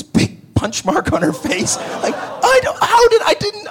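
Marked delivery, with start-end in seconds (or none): 2.2-3.7 much higher, near-crying cry of disbelief; flustered denial. Retold or imitated. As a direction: stammer out a panicked denial.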